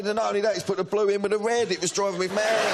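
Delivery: high, laughing storytelling; laughing while telling. Real, not acted. Laughing retelling son story.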